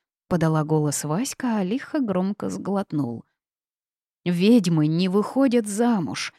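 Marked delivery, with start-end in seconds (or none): 4.2-6.3 mild slow outcry; shouted. Acted. Girl protests to her grandmother, mild slow cry. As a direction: protest slowly, half-raised. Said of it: "закричала я".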